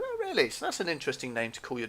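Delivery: high, swooping challenge, mildly acted; mock surprise. Man challenging the desk guy on a court case, mock surprise. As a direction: act out a sceptical high-pitched reaction.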